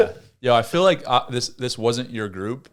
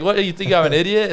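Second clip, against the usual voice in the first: higher, louder indignant snap; mock indignant scold; 8 semitones higher, 4 dB louder than usual. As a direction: call their bluff, outraged. Counselor scolding kids.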